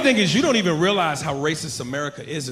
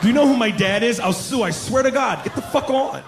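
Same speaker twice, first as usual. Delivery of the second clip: entitled white partier; 6 semitones higher than usual. Retold or imitated. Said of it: "entitled white partier".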